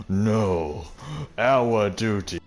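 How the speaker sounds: lightly voiced snooty father quoting duty; mocking pompous father. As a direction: drone it out like a smug elder.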